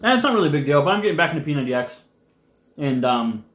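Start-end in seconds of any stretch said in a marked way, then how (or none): 0.8-2.0 chewing while talking fast; mouth full. Real, not acted. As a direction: talk through a mouthful. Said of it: "I can talk with my mouth full".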